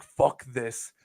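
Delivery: whispered retelling of the outburst. Retold or imitated. Telling a co-host about the fan, whispered. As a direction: hush it like a secret.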